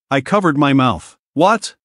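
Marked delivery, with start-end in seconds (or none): 1.3-1.8 sharp high mock-surprised "What?"; feigned shock. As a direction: fake your astonishment, rising high. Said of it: "Feigning shock".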